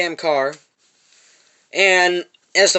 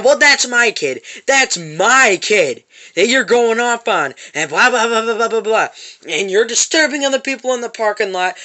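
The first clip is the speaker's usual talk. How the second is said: louder, higher mock tirade; retold scolding, voice pushed up; going off; 4 semitones higher, 3 dB louder than usual. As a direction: imitate an indignant woman ranting, raised voice. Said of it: "she fucking went off on me".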